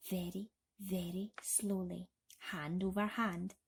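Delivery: breathless suspense, barely voiced; whispered suspense; hushed whisper. A narrator's reading. Tense narration of slow descent.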